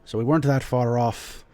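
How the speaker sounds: lightly voiced lord, measured and formal; hint of an old noble host, pausing to choose words; dwarf lord. Game master plays the Lord.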